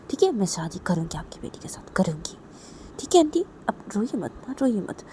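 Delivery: calm her down with an earnest, hushed promise. Acted. Voices consoler promising marriage. (धीमे से भरोसा दिलाना)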